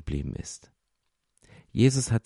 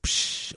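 short "psch" shush; hushing; 3 dB quieter than usual. Acted. People silence a would-be leader, quick hushing.

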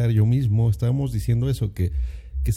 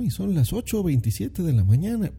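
overly formal answer; 6 semitones higher than usual. Shown as a demonstration. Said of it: "No, o sea, dices".

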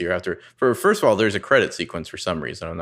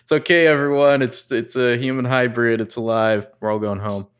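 louder, higher mock announcement, easing off; sarcastic reassurance to everyone; mock all-clear; 4 semitones higher, 4 dB louder than usual. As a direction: announce the anticlimax to a crowd, mockingly. Mocks the film's anticlimactic all-clear.

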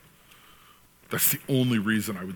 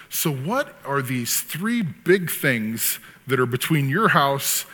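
模仿律师盘问; slower than usual. Retold or imitated. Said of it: "he's interviewing this guy".

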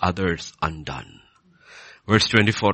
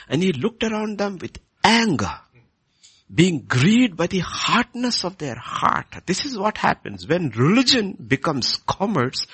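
raised pitch with emphatic key words; impassioned preaching; 8 semitones higher than usual. Acted. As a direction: drive the rebuke home to the congregation. Preaches on religion becoming commerce.

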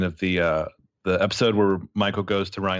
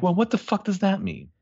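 much higher, incredulous; a pitched-up disbelieving blurt; baffled teacher; 10 semitones higher than usual. Retold or imitated. Teacher baffled by a student's cryptic answer, pitched-up disbelief. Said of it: "And she's like".

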